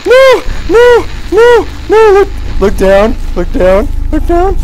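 high, loud panicked apologies; frantic yelling. Real, not acted. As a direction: shout in real panic. Monster attack, frantic apologies.

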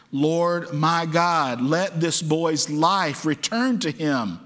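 slow, drawn-out earnest plea; crying out in prayer. Acted. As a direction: plead slowly, weighting each word. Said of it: "cried out to the Lord".

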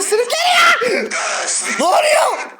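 high, loud laughing shout of alarm; real startled shout; panicked laughing yell. Real, not acted. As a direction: yell through nervous laughter as you're dragged off. Grabbed and dragged in game.

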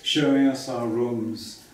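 measured poem recital with pauses between phrases; poem reading. Acted. Poet reads a childhood holiday poem to festival audience, measured recital. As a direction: read your poem slowly, phrase by phrase.

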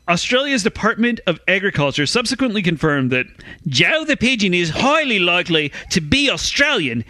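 reading it in a light mock Russian accent; a hint of a Russian accent for the quote. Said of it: "why are you doing a Russian accent?".

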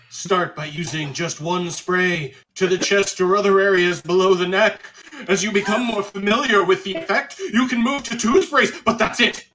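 mock ad read. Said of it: "Tell us how to use Instant Jerk".

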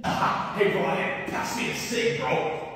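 hushed, breathy whisper to a friend; whispering so the principal won't hear; whispered aside. Acted. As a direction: sneak the words out under your breath. Sneaking a cigarette at school.

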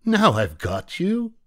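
very high, slow triumphant witch cry; witch shout. Acted. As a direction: gloat like a hag springing the trap.

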